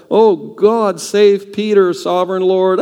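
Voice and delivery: high, fervent mock pleading; fervent prayer. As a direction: pour it out like a desperate prayer meeting. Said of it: "pouring it out".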